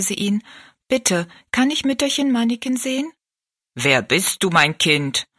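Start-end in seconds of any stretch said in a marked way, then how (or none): 0.9-3.1 put-on polite little girl. Rosalie asks the giant. 3.7-5.3 put-on lower, dignified old giant's voice. Tall giant asks the girl who she is, low and dignified. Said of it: "fragte der Riese würdevoll".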